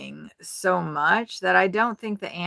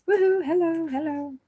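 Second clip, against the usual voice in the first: high, bright sing-song call to someone in the next room; 11 semitones higher than usual. Real, not acted. Calling out to someone in RV.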